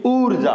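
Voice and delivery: ऊर्जा with the first vowel held, 'oor-ja'; long u. Shown as a demonstration. Teacher demonstrating the big matra, lengthened vowel. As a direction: give the ऊ in ऊर्जा double time. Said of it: "double मात्रा का समय लगाना चाहिए".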